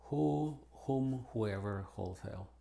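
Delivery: "who, whom, whoever, wholesale" starting on H, no W; sounded H. Shown as a demonstration. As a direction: say "who, whom, whoever, wholesale" as hoo, hoom, hoo-ever, hole-sale. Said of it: "entonces sí debemos pronunciar".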